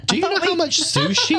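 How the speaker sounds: high laughing disbelief; laughing protest. Real, not acted. Host balking at paying for sushi, laughing protest.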